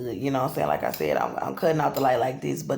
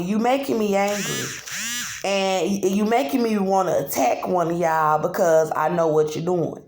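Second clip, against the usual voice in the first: higher, defiant voice telling them off; high-pitched retort; 3 semitones higher than usual. Retold or imitated. Voicing her own retort at the men outside.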